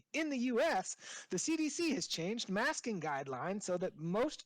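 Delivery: emphatic news-story delivery; news read. Acted. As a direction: read the story out with punched key words.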